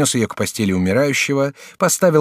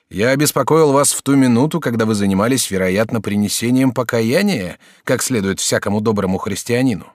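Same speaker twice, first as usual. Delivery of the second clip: lightly raised student voice; young student Jacques; 3 dB louder than usual. Acted. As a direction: play the courteous young student. Student apologizes.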